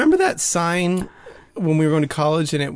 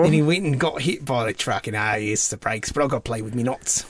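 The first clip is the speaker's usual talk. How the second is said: put-on Cockney accent. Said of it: "a Cockney accent? Is he like".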